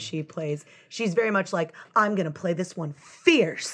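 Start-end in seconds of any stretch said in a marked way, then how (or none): 1.9-3.7 put-on theater girl voice. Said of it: "she has theater girl voice".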